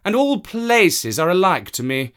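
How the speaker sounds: high, loud proud cat; a cat who answers to no one; haughty cat. Acted. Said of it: "said the cat".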